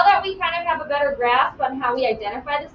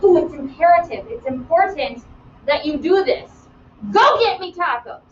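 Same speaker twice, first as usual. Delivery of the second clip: mock bossy command; 3 dB louder than usual. Shown as a demonstration. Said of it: "express a command".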